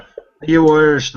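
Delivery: loud, drawn-out quizzing; mock gamer asking; slow mock question. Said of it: "they're like that".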